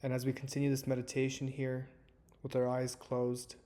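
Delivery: calm, measured meditation guide with long pauses; guided meditation. Acted. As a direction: ease listeners into stillness, leaving space between phrases. Leads a guided breathing meditation.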